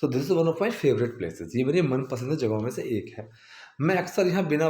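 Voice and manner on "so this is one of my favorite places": slow, careful full sentence; slow teaching read; slow repeat. Shown as a demonstration. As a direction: read it slowly again. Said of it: "place नहीं".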